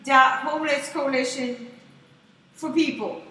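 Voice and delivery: slow, spelled-out mock announcement; panhandler reciting web address. Panhandler plugging a fake website, mock spiel. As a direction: imitate a hustler plugging his fake website. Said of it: "he'd be like".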